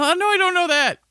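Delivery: high-pitched mock defensive reply; mock protest. Host acting out his answer to a disbelieving questioner, mock protest. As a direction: squeal it as an exaggerated admission of ignorance.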